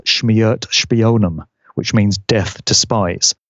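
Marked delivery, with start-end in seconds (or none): 0.1-1.5 slow, careful Russian "Shmert Shpionem"; Russian pronunciation. Shown as a demonstration. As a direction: spell out "Shmert Shpionem" slowly in Russian sounds. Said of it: "derived from a couple of Russian words".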